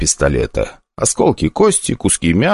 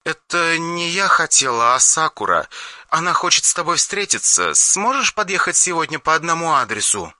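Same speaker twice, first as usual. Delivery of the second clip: put-on high, softer young woman's voice; Yulia's voice; 10 semitones higher, 5 dB quieter than usual. Yulia relays Sakura's invitation to the hero, high and soft. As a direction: pass on the invitation softly and carefully.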